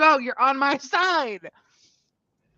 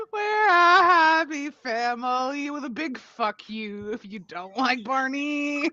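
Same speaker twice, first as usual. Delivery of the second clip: mock defiant; 3 semitones higher, slower than usual.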